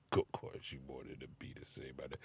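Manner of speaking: quick mumbled requote. Shown as a demonstration. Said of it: "I get the double on it".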